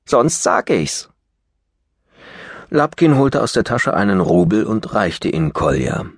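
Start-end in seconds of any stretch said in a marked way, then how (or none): 0.0-1.1 put-on cheeky boy. Brat's threat.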